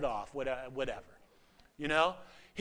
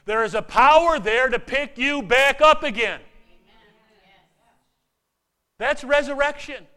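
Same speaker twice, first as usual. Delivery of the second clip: building preaching; 3 semitones higher, 9 dB louder than usual. Real, not acted. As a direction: preach it up to a full-voiced climax.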